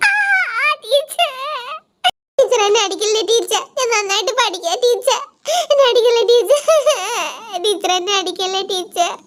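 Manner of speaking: mock-frightened kids pleading with the teacher; begging schoolkids. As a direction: beg the teacher to spare the cane. Kids beg not to be caned.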